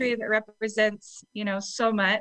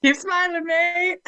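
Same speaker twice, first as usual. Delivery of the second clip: put-on Australian accent; 8 semitones higher, slower than usual. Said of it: "My favorite Australian saying".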